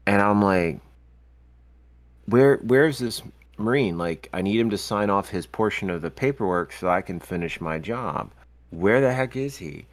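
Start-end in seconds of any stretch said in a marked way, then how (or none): 2.3-9.9 retold exasperation, lifted pitch on where; mildly acted impatience at someone missing; retelling his own annoyed search. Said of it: "I'm getting annoyed".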